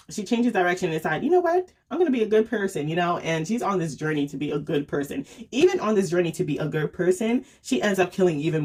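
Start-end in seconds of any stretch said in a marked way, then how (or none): 1.2-2.9 mock resolve. Acting out character's sudden resolution.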